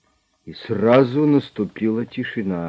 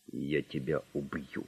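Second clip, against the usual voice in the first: curt threat; 5 semitones lower, 11 dB quieter than usual. A narrator's reading. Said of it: "коротко сказал бандит".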